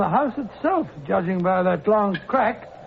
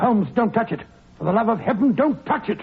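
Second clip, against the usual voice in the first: frightened pleading; 3 semitones higher than usual. Acted. Watson begging Holmes to leave the corpse, frightened plea. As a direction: plead urgently, don't let him near it.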